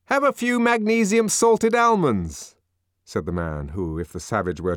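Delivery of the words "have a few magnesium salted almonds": nervous offering. A narrator's reading. Sightseer offers almonds.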